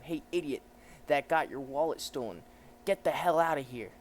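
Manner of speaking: lightly voiced bullying policeman; a hint of a crooked lawman; corrupt cop. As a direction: lean on them for a bribe. Voices cop demanding a bribe.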